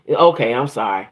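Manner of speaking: a grudging, dismissive "Okay, I'm sorry". Retold or imitated. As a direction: brush it off, lightly imitating. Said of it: "you ain't sorry if you say it like that".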